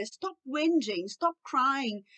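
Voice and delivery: drawn-out, exasperated order; mildly exasperated parent; fed-up scolding. Shown as a demonstration. (bronca impaciente)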